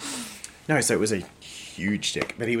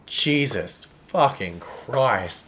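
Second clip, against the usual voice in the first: blissed-out exclamation; 3 semitones higher, 3 dB louder, much slower than usual. Retold or imitated. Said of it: "And I was just like".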